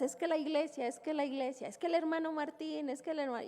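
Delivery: lightly mocking wife's stammered excuses; flustered excuses. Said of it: "Y nosotras". (excusas atropelladas de la esposa, en tono de burla)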